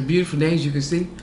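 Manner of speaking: talking between bites; chewing a chip. Real, not acted. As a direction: mouth partly full. Seen 1: Chip raised to mouth, bitten about 1.2s, then talks while chewing.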